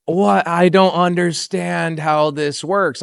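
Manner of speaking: slow, slack-jawed bafflement; stunned disbelief. Retold or imitated. Agent hearing the offer on Zoom, stunned. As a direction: drag it out as if your mouth is hanging open. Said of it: "his mouth is just hanging open".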